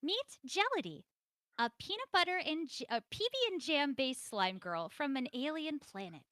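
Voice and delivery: hyped announcer intro; big dramatic announcer read. Acted. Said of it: "I will do this in my best announcer voice".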